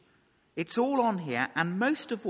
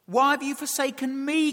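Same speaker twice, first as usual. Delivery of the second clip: raised, higher pleading question; imitated crying out; 8 semitones higher, 7 dB louder than usual. Preacher voicing Jesus forsaken on the cross, crying out. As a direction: cry it out, high and loud. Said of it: "cries out Jesus".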